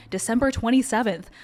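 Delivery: the date repeated in dawning alarm; dawning shock. Retold or imitated. Lawyer realizing the filing date's meaning, dawning alarm. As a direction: realize what "December twenty-seventh" means. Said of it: "And then I was like, "Oh my God".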